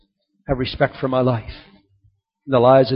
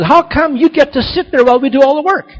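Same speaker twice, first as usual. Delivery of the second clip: louder and higher, demanding why the boss sits idle; indignant confrontation; 10 semitones higher, 7 dB louder than usual. Retold or imitated. Ditch digger confronting the crew boss, loud and indignant. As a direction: throw the complaint at the boss, hard. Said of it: "confronted the boss and said".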